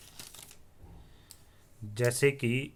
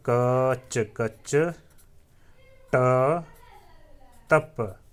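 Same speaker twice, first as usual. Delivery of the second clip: 1 slow recitation; 4 dB louder, much slower than usual. Shown as a demonstration. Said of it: "इसको लिखने का एक तरीका देखिए".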